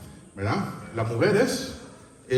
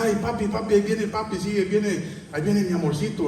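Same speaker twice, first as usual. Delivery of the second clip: put-on higher-pitched, eager children greeting papi; happy family welcome; 5 semitones higher than usual. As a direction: voice a delighted welcome home. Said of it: "los hijos o tu esposa, cuando usted viene del trabajo".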